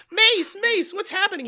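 put-on high, urgent girl calling out; mock panic. Cindy runs up to her older brother, mock panic.

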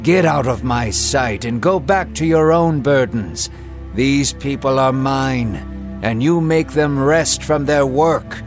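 a king brushing off pests with mild annoyance; a touch of a vexed pharaoh; irritated. Acted. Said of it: "irritated by their very presence".

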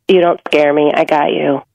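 gently steady a partner, voice dropped; low, calm and reassuring. Acted. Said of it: "and reassure her".

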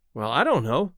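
ordinary delivery, nothing marked

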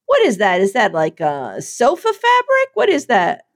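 mock the outfit, then fake-praise it; mock catty critic.

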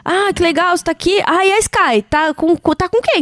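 mock friendly small talk from a flirt; парень на танцполе. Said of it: "dar uma cortada no cara na pista".

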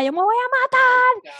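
high, loud imitated wail; mock suicidal threat. Telling a friend what the armed date said, high mock wail. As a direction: ham up his desperate threat. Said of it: "Sacó una pistola".

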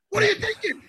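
high, loud, exasperated; an exasperated, incredulous scolding; exasperated shout. Real, not acted. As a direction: scold him in disbelief. Scolding fighter.

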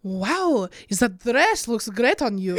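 amused attempt at a French accent; light mock French accent. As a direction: try a French accent, close to laughing. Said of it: "Should I try?".

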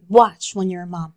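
a hushed, knowing whisper; whispered warning. Retold or imitated. Mom whispering a warning to her daughter. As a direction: breathe the warning like a secret. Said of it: "my mom would always tell me".

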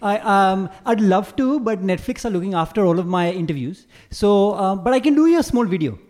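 light Indian-accented imitation; polite refusal in a mild Indian accent; Seema's Indian accent. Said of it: "do, do, do her accent".

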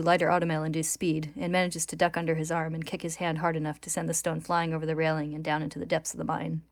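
measured, dramatic read-aloud; story narration. A narrator's reading. Host reads manga recap to co-hosts, story narration.

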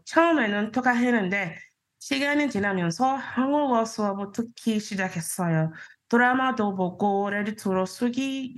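fast, fluent native-sounding Korean; Korean self-introduction. Shown as a demonstration. Introducing herself in Korean to the host, fluent and fast. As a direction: rattle off a Korean intro like a local. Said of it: "Yo, the tone".

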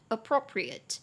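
appropriate drawn out slowly, all four syllables clear; slow model word. Shown as a demonstration. Teacher slowly saying the vocabulary word for listeners. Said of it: "这个字我记得我们之前也讲过".

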